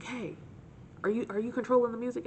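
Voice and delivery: put-on drunk guy voice.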